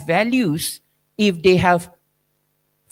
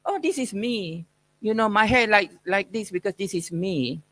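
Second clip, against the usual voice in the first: softer, offhand mock of a youngster; mocking young person; 5 dB quieter than usual. Lecturer mimicking young people, softer and dismissive. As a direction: brush it off like a self-assured teen. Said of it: "They keep saying".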